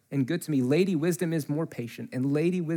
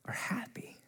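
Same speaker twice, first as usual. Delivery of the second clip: echoed whisper; 7 semitones higher, 14 dB quieter than usual. Shown as a demonstration. Preacher echoing the verse for the congregation, whispered. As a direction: whisper "Are happy" back, voiceless and soft.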